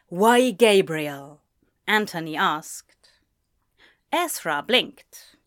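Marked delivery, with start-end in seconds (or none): 0.1-1.4 slow, loud, tense question; tense confrontation. A narrator's reading. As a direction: challenge him, heavy and drawn out. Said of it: "wound tense like a snake".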